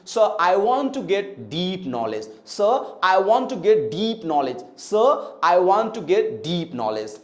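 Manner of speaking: slow model sentence, long ee in 'deep'; 'deep' stretched out in a slow sentence; drawn-out vowel. Shown as a demonstration. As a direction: linger on the ee of 'deep'. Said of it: "खींच के बोलते हैं".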